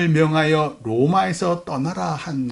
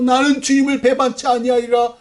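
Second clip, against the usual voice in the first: a higher-pitched vow of loyalty, lightly acted; lightly voiced disciple swearing loyalty; Peter; 7 semitones higher, 3 dB louder than usual. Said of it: "수제자 베드로조차도 다른 것들은 다 도망가도".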